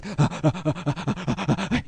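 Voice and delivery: rapid rhythmic mock panting; excited panting. Host imitating listeners watching his video, excited panting. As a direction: pant fast like an aroused viewer. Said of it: "you'll be all fucking excited".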